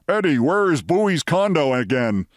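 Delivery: imagined mild fake shout; half-voiced imitation of a boss calling out; Steinbrenner. Narrator imagining faking Steinbrenner's voice, restrained shout. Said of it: "try to fake Steinbrenner's voice and shout".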